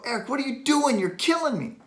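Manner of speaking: high-pitched mock protest to the therapist; pained protest. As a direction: act out pleading under painful pressure. Acting out protest at painful therapy.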